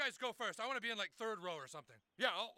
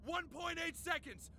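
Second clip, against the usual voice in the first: pitched-up victory taunt; triumphant gloating. Acted. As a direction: crow it at your rival. Gloating repeat to rival on phone.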